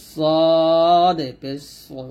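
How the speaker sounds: very slow, drawn-out সদ with a heavy s; thick consonant. Shown as a demonstration. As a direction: round সো full and thick. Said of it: "মোটা করে". (মোটা করে টেনে সদ পেশ সো)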